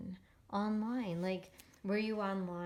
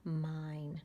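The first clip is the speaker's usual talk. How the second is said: slow example; 4 semitones lower, much slower than usual. Shown as a demonstration. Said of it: "this pencil belongs to me".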